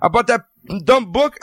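high-pitched incredulous mockery; mock disbelief. Mimicking future people laughing at a fad, mock disbelief.

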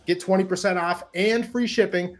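upbeat sponsor ad read. Acted. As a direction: sell it like a podcast ad. Host reads sponsor ad.

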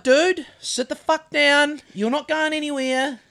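mild retold anger, first words drawn out; firm mock telling-off; retold red mist. Storyteller ordering the young car thief to stay put, mildly angry. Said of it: "started getting the red mist".

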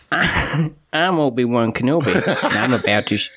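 mock American kid-at-play hero; put-on American accent. UK kid playing with toys, imitated American accent. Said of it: "the voices that they'll put on will be American".

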